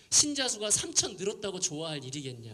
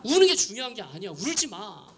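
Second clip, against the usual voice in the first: mock shouting at crying kids; half-acted pastor telling the teens to stop crying; retold shout; 3 semitones higher, 6 dB louder than usual. Pastor yelling at crying teens not to cry, imitated. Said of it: "수련회 때 그랬대요".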